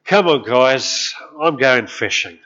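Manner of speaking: lightly voiced Peter, slow and loud; a hint of a fisherman calling his mates; casual call to the guys. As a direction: call the others out fishing, easygoing. Disciple voiced in retold story.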